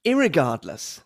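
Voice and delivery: American irregardless. Shown as a demonstration. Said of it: "the second version is American".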